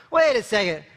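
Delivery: quick check on yourself; self-correcting retort. Acted. Talking yourself out of embarrassment at a party, self-correcting retort. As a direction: pull yourself up briskly.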